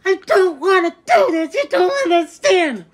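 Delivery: high whiny crybaby imitation; mocking crybaby. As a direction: mimic him like a whining baby. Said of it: "sounds like a crybaby".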